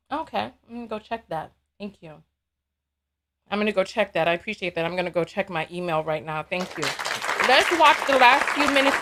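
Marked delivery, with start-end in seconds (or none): 0.1-6.8 murmuring. Real, not acted. Murmuring while turning away.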